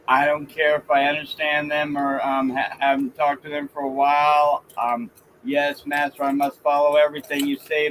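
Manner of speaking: flat robotic yes-man voice; computer imitation. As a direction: drone it like an obedient machine. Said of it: "really crappy imitation of a com-, um, com-, um, computer".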